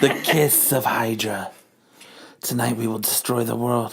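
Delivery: low, soft menacing address; villain speech. Acted. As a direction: announce the doomsday plan with quiet menace. Villain announces doomsday.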